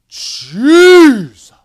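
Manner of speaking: a huge high cry of Jesus, full voice; yelled Jesus. Retold or imitated. Sister Urshan yelling over the panicking passengers, huge cry. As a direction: cry out to Jesus from the shaking plane. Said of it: "just yells out".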